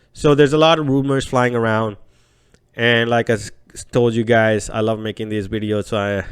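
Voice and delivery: stuffy nasal voice with a cold. Real, not acted. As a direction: talk through a blocked nose. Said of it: "apologize in advance for the nasally voice".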